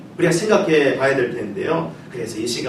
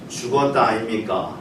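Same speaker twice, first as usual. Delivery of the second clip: Gyeongsang dialect phrase, said lightly; a light Gyeongsang dialect line; 6 semitones lower, 5 dB quieter than usual. Shown as a demonstration. 경상도 사투리로 가볍게. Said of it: "경상도에서는 이렇게 말한다고 하죠".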